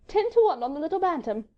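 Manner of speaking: high, lilting bet; merry lady. A narrator's reading. Wife betting on the Frenchman, merry and high. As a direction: call the odds high and playfully. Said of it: "said Marguerite merrily".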